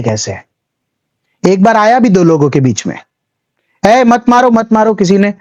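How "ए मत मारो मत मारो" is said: higher-pitched mock plea to stop; lightly acted intervention. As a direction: call out as if half-heartedly breaking up a fight. Acting out breaking up a fight.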